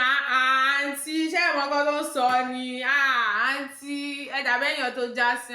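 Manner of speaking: lightly mimicked driver, loud and stretched; mock driver. Driver protesting to auntie over change, mock exasperation. Imitates driver hailing her.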